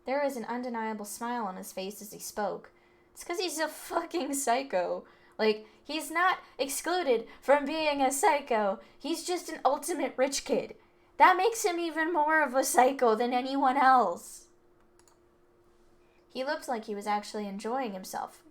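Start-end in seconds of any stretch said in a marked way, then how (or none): 3.1-14.4 a different, rougher guy ranting, building louder; rough delinquent voice. Acted. Delinquent ranting to the group about the rich kid, rough and angry. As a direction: spit it out like a street thug who's had enough.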